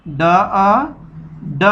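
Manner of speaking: "ड" said heavy, tongue curled back, a full retroflex d; heavy ड sound. Shown as a demonstration. Teacher shows children the heavy letter sound, "ड" said thick and retroflex. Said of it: "मोटा करके पढ़ना है".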